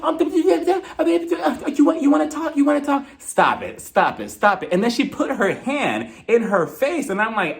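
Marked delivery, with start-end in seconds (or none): 0.0-4.7 put-on high, whiny baby-talk taunt; mock her in a high whine; high mocking baby voice, stretched out. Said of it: "who are you talking to like this".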